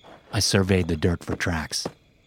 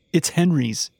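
choking on tears; 9 semitones higher, slower than usual. Acted. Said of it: "I said, choking on tears".

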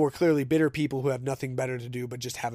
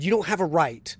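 heated retold retort. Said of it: "I said".

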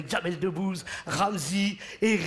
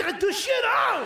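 mock scolding; 11 semitones higher, 4 dB louder than usual. His body scolding him.

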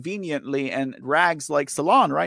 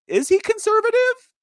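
shocked question, pitched way up; incredulous; 7 dB louder than usual. Real, not acted. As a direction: voice jumps high and loud in disbelief. Surprised at Tim Pool label.

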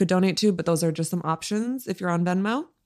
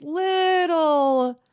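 hint of Irish; 8 semitones higher than usual. Shown as a demonstration. Showing slight Irish-accented bits.

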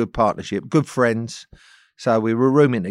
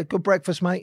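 sarcastic greeting; 8 semitones higher than usual. Retold or imitated.

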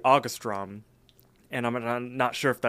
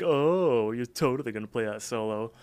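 mocking. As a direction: taunt with exaggerated false encouragement. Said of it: "like, mock him".

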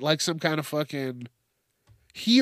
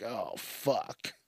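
resigned mutter; 5 semitones lower, 12 dB quieter than usual. Pretend. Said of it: "And I'm like".

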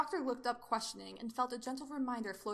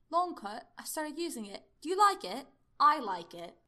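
higher, louder, upbeat questions; animated character dialogue, pitched up; perky Doctor character; 6 semitones higher, 9 dB louder than usual. Acted. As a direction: voice the Doctor with bouncy emphasis.

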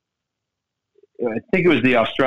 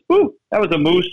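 Canadian guy impression; 6 semitones higher than usual. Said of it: "that's a Canadian way of saying".

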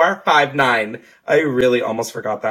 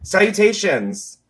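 mock formal greeting; 6 semitones higher than usual. Shown as a demonstration. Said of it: "I can't even say it with a seri".

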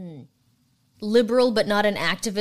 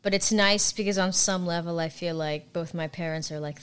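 ordinary talk, nothing marked

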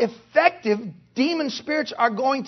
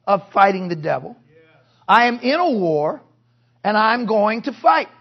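determined vow; 4 dB louder than usual. Acted. Voices a believer's determined vow.

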